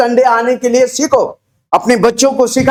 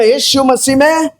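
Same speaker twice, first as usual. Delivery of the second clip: shouted response line; 5 semitones higher than usual. Shown as a demonstration. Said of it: "चिल्ला के बोलो ना".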